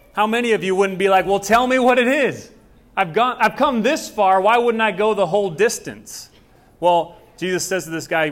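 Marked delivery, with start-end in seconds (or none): 1.3-6.3 eager, higher and louder insisting; eager plea. Retold or imitated. Preacher voicing an eager seeker, pleading. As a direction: press to know what it is, eager.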